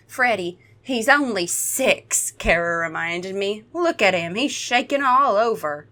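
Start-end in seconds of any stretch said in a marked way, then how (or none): 0.1-2.3 stretched-out Southern reproach; Southern accent. Acted. Cara reminding Freddy of Tyler's age, Southern accent. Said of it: "She's Southern, you knew this". 3.7-5.9 lightly acted Southern scolding; Southern accent. Cara pointing out that Tyler is shaking, Southern accent. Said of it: "She's Southern, you knew this".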